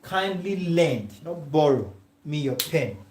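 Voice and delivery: "lend" stressed, "borrow" punched in contrast. Shown as a demonstration. Teacher correcting students, stressing "lend". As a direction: lean on "lend", then "not borrow". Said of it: "That is the correct thing to say".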